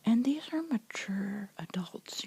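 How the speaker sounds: ordinary talk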